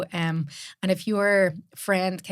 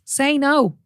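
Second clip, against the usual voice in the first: higher and louder, pleading firmly; insistent urging; 8 semitones higher, 4 dB louder, slower than usual. Retold or imitated. Daughter urging her mother to stop giving, insistent louder plea. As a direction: push her to say no.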